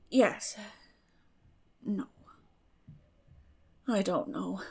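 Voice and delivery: a tired, drained reply; weary. A narrator's reading. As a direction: let it sag with fatigue. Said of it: "said Marilla wearily".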